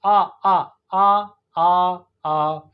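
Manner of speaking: आ as a sustained open AH, unrounded; open AH vowel. Shown as a demonstration. Teacher isolating the American vowel from father, long open आ. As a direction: hold a plain open आ as in father. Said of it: "sounds like father".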